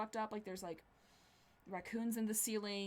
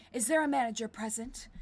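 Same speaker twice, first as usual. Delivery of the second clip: Damien; 2 semitones higher, 7 dB louder than usual. Acted. Voiced posh customer Damien.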